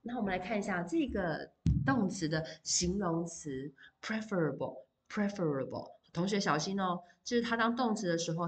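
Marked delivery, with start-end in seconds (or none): 4.0-5.9 "preferable" with the stress on the first syllable, said twice; teacher modelling "preferable" stressed up front; pronunciation demo. Shown as a demonstration. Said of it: "它的重音也不一样，preferable".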